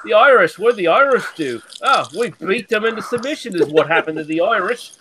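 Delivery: hammed-up posh Londoner, sneering; lightly done upper-class English voice, mocking; mock posh English accent. Taunting the Scottish friend in a mock posh English accent. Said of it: "You posh cunt".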